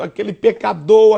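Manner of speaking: normal talking voice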